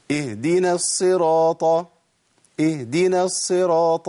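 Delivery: slow chanted "اهدنا الصراط" with the h missing; ha left out. Shown as a demonstration. Teacher demonstrates the error to students, ha left out. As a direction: chant "اهدنا" slowly as ee-dina, dropping the h. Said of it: "أنا كده ما طلعتش هاء".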